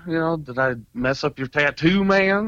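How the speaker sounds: high-pitched, mildly panicked retelling; nervous panic. Retold or imitated. Tattooist nervously approaching an agitated stranger, mildly panicked. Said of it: "I'm kinda panicking right now".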